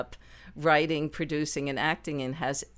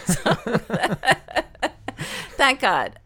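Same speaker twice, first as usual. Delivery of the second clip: high, loud laughing thanks; laughing gratitude over the cheap guitar; laughing relief; 9 semitones higher, 7 dB louder than usual. Real, not acted.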